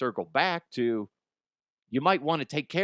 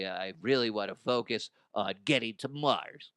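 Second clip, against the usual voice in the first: scientist voice; 5 semitones lower than usual. Acted. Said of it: "random other voices".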